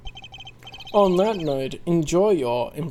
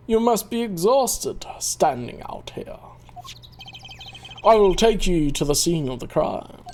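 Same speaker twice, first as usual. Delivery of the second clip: put-on German accent, whispered. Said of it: "German accent".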